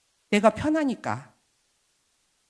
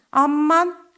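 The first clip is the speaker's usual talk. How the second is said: clumsy amen; 8 semitones higher, 8 dB louder, much slower than usual. Retold or imitated. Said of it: "이런 것도 잘 못하시는 분이에요".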